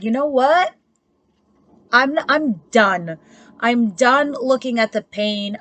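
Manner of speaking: imitating someone who has had enough; fed-up dismissal. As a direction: shut the door on them, slowly and firmly. Voicing the fed-up querent.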